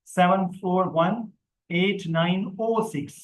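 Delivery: slow, each digit spaced, zero as ओ; phone number read. Shown as a demonstration. Teacher reads a phone number to students, slowly. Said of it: "जैसे ये देखें".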